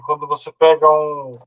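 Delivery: ordinary talk, nothing marked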